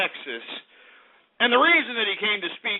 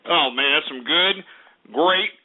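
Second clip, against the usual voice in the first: slow, relishing praise of scotch; savoring; 4 semitones lower, slower than usual. Acted. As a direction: linger lovingly over the whisky, slowly. Savoring whisky on air.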